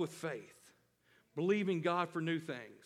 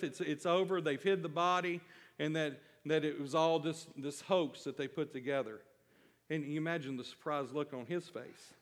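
usual speaking voice

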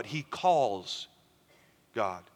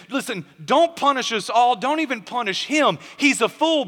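higher, emphatic pleading; animated, raised-pitch appeal; acted plea; 6 semitones higher, 4 dB louder than usual. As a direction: plead for mercy on someone else's behalf. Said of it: "She comes to David and she says".

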